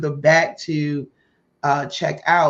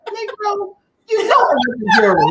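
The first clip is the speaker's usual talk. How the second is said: loud, high, fast indignant shout; exasperated outburst; 6 dB louder than usual. Retold or imitated. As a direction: yell it as if he should know better. Retold retort, annoyed at Victor.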